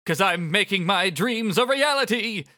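Motoi villain voice. Acted. Motoi gloating at Rindo, slow smug villain read. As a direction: savour each word like a gloating villain. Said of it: "Motoi says".

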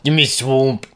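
comic fake Scottish; badly faked Scottish; mock Scottish accent. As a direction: practise the Scottish swamp line. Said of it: "your swamp accent".

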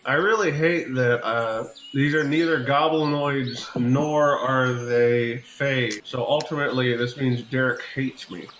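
General Patton voice, pipe between teeth; pipe in mouth. Pretend. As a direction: talk around a pipe stem. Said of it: "I'm gonna take that pipe out of my mouth".

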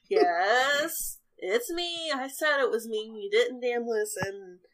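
mock-annoyed old man; irritated Wilfred. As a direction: bicker back at a deaf old friend. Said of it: "Wilfred goes".

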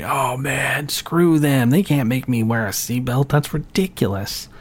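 imitating indignant complainers; mock grumbling. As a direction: scoff like everybody objecting to a new rule. Mimics everybody griping about seatbelt law.

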